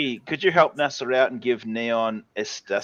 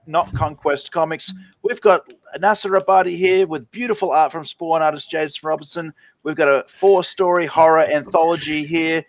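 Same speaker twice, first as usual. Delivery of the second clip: hammed-up pitchman voice; mock announcer hyping the book; sales pitch. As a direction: sell it like a carnival barker. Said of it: "You gotta sell it".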